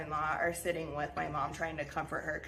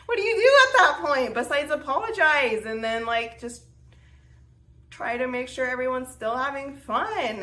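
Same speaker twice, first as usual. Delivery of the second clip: high and loud, exasperated rhetorical question; exasperated helplessness; 5 semitones higher, 6 dB louder than usual. Retold or imitated. After apologizing to her family, exasperated and high. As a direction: throw up your hands, pitched up. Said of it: "was like".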